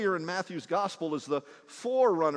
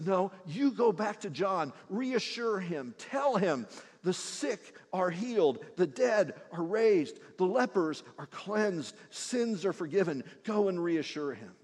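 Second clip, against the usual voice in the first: tender reassurance. Retold or imitated. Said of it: "with tenderness".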